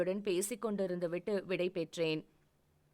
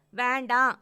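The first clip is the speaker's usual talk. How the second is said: higher, much louder "வேண்டாம்"; upset girlfriend shouting no; loud angry no; 4 semitones higher, 9 dB louder than usual. Acted. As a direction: shout the refusal. Angrier repeated refusal.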